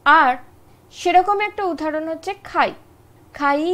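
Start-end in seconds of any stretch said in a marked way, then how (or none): 3.4-3.6 খাই stopped short after the i; short closed খাই; clipped khai. Shown as a demonstration. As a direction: cut খাই off. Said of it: "বলে টানতে পারছি না".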